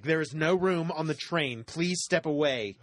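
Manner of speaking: slow, stern announcement voice; uptight train attendant. Pretend. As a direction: announce it slowly and stiffly. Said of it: "they're like".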